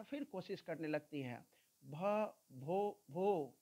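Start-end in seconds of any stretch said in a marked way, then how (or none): 1.8-3.6 slow, halting भ भो भो with broken restarts; teacher acting out a girl's stammer. Shown as a demonstration. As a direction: stutter on भो, stuck on the first sound. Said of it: "she began to stammer".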